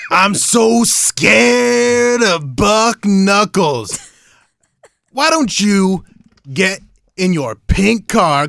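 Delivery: lightly voiced cocky wrestling heel; wrestling promo. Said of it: "Oh, let's cut a promo".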